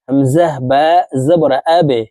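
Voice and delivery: bouncing release on the ba ending "আবে"; qalqalah bounce. Shown as a demonstration. Teacher shows the qalqalah letter rule, bouncing ba in "আবে". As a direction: push the ba of "আবে" downward with a small echoing bounce. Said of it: "ধাক্কা দিয়ে উচ্চারণ করতে হবে".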